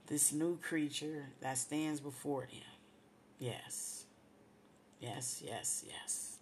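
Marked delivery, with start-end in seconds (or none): 3.4-6.4 emotional whisper. Real, not acted. Moved, affirming the blessing.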